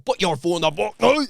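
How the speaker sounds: comic Scottish rant, rising at the end; rough Scottish impression; mock Scottish accent. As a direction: put on a Scottish accent and build. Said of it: "She had a fucking deep Scottish accent".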